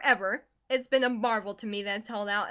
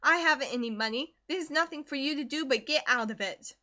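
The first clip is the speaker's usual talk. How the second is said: bitter scolding mother; 3 semitones higher, 7 dB louder than usual. Acted. Mother berates daughter for whining, loud and bitter. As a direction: berate her, rising to a near shout. Narrator voices Mrs Comstock.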